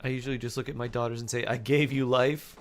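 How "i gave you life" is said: slow mock menace; menacing. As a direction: loom over them slowly.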